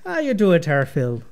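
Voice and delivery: lightly put-on Irish greeting; Irish character small talk; Irish accent. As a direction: ask it in a stage-Irish lilt. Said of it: "he has an Irish accent".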